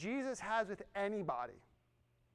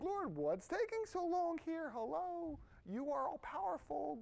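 impatient prayer; 4 semitones higher, 4 dB quieter than usual. Acted. Acted impatient prayer to God.

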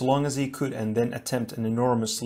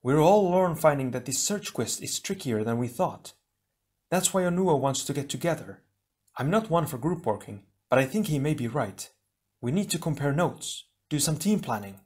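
Leiwa voice; 4 semitones higher than usual. Acted.

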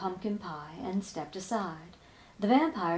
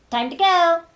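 higher, much louder chirpy exit; high bat call; 7 semitones higher, 12 dB louder than usual. Acted. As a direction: sing out the goodbye. Bat leaves.

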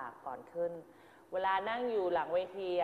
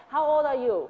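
raised, louder quiz question; teacher testing a pupil, clearly louder and higher; teacher asking in English; 6 semitones higher, 10 dB louder, much slower than usual. Shown as a demonstration. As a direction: fire the question at the student. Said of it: "มันตอบ".

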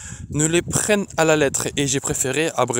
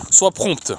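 higher, urgent order; exclaimed; 5 semitones higher than usual. A narrator's reading. Magician hurrying the execution along, exclaimed. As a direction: urge haste with a short push. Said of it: "s'écria le magicien".

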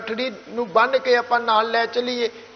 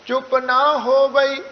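ਚੁੱਪ ਨਾ ਹੋਵਈ slow and joined; read as one phrase; slower than usual. Shown as a demonstration. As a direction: recite ਚੁੱਪ ਨਾ ਹੋਵਈ without a break. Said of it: "ਅਗਲੀ ਪੰਕਤੀ ਇਕੱਠੀ ਪੜ੍ਹੀ ਜਾਏਗੀ". (ਚੁੱਪ ਨਾ ਹੋਵਈ ਇਕੱਠੀ ਪੜ੍ਹੋ)

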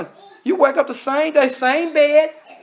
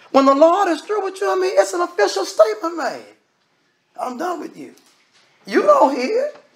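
higher and louder, a rising sermon climax; preaching at full force; 7 semitones higher, 4 dB louder than usual. Acted. Preacher warning the congregation of judgment, full force. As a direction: drive the warning home to the congregation.

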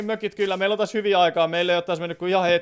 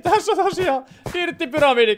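higher, laughing reveal; 10 semitones higher, 4 dB louder than usual. Real, not acted. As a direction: laugh at your own odd build. Shows the silly dirt pyramid. (naurahtaen esitelty)

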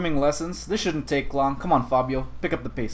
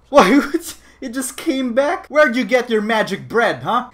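high, loud "what?"; amazed disbelief; 9 semitones higher, 5 dB louder than usual. Real, not acted. Player seeing bread come back, amazed. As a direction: marvel in a raised voice.

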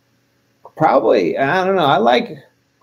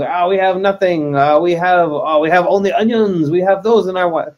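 lightly hammed-up French accent; bad French accent. Playing starving French revolutionary on the battlefield, bad French accent. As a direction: attempt a rough French accent. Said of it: "the worst French accent".

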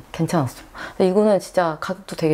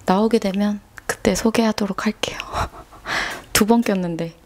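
whispering; 3 semitones higher than usual. Real, not acted. Whispered aside after losing glasses.

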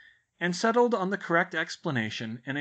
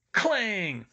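clanging sound word; 8 semitones higher, 4 dB louder than usual. A narrator's reading. Elf bangs head on sink.

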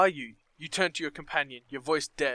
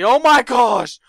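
loud, high startled shriek; real jolt of fright; sudden shocked yelp; startled cry; 8 semitones higher, 14 dB louder, slower than usual. Real, not acted. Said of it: "player startled by jumpscare".

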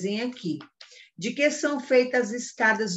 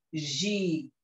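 slow, halting syllable-by-syllable reading; drawn-out syllables, as if decoding; sounding out syllables; 3 semitones lower, 4 dB quieter than usual. Shown as a demonstration. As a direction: read it like a beginner, stretching each syllable with a long gap. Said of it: "se você tivesse lendo aqui".

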